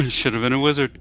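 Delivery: grumbled under the breath; quietly grumbling to himself; muttered under breath. Acted. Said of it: "say under his breath".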